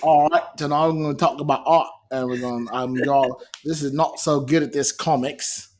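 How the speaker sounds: muddled, badly faked Australian accent; Wayne's Australian accent. Co-host posing as Wayne introducing art talk, garbled Australian accent. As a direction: fumble through an unplaceable attempt at Australian. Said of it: "I don't know what accent that is".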